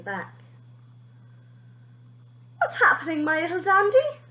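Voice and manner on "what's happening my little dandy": grandpa voice. A narrator's reading. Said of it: "asked Grandpa".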